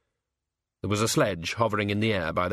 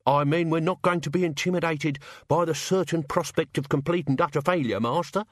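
higher, chirpy sidekick; cheerful servant voice; 4 semitones higher than usual. Acted. The sacks cheering up the Hogfather, chirpy. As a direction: bluff encouragement for the master.

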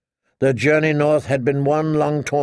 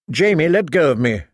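raging; 3 semitones higher than usual. Acted. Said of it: "she raged".

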